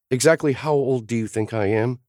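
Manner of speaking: mock offended question; lightly voiced Sloane. A narrator's reading. Sloane to the kid, lightly indignant.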